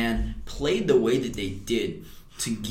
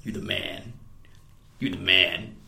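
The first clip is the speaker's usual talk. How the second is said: acted-out pep talk swelling louder; self pep talk; 9 dB louder than usual. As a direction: psych yourself up in the mirror, building.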